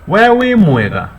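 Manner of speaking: "Wewe mwega" high, loud and slow; asking the visitor how they are; slow demo question. Shown as a demonstration. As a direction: ask "Wewe mwega" clearly for the learner. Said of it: "you can ask the visitor".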